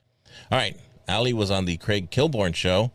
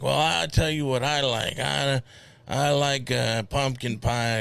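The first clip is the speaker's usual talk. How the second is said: put-on very old man; 5 semitones higher, slower than usual. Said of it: "in an old man voice".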